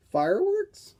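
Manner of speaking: high, loud, startled question. Acted. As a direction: blurt it out at a sudden boom. Sudden boom overhead.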